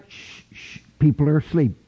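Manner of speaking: hushed shushing, breathy and soft; a teasing little whisper; mock whisper. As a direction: shush them like sleepers nearby. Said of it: "Wasn't any whisper".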